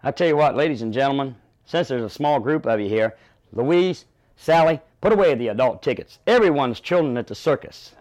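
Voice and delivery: loud, high, rhythmic barker calling the crowd; carnival barker pitch. Retold or imitated. Barker pitching the sideshow to passing crowd, loud and high. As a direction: hurry them to the ticket booth, sell it hard. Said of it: "break it down like".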